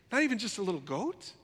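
ordinary delivery

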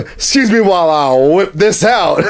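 hammed-up film line; movie quote. Joking before showing the officer the whip, hammed-up quote. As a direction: deliver it as a playful comic movie quote. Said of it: "Blazing Shadows came into mind".

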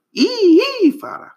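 high, loud yelps of pain; pained cry. A narrator's reading. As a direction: yelp as the rock hits your head. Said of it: "cried Rabbit".

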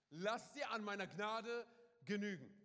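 loud and slow, like God's own answer; proclaiming. Acted. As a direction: call it out slowly to the congregation.

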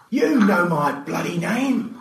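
high, drawn-out irritated call; slow, high-pitched holler. A narrator's reading. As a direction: call it crossly from the next room. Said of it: "George called from the galley".

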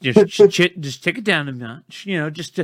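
falsetto calming voice; squeaky reassuring voice; high soothing mock voice.

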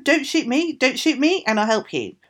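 high, loud pleading bird voice; crow. Acted. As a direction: squawk it out as a frightened crow. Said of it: "cried the raven".

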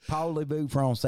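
mock Southern Frenchman; French spoken with a Southern twang; Southern-accented French. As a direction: keep up the hammy Southern accent. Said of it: "your French accent is Southern".

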